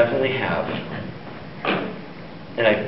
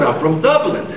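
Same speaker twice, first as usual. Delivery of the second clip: raised, lilting Irish brogue; jokey put-on Irish accent; 4 semitones higher than usual. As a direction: announce it as a stage Irishman. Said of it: "do I detect a bit of Irish?".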